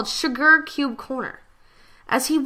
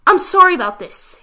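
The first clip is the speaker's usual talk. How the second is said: higher, louder strained apology; 8 semitones higher, 9 dB louder than usual. Acted. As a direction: apologize through effort. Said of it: "as he grinded his teeth".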